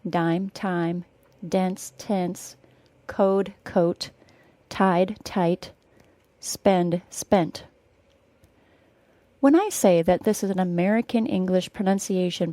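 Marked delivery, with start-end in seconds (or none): 0.1-7.6 "Dime, time" as separate words with distinct D and T; minimal pairs. Shown as a demonstration. Teacher drills learners on D and T, "code, coat" carefully articulated. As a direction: contrast voiced D with crisp T in "spend, spent". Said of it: "D sound, T sound minimal pairs".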